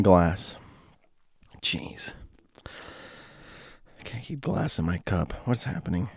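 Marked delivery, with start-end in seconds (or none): 1.6-6.1 muttered unvoiced whisper. Real, not acted. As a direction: whisper it to yourself. Whispers after spilling.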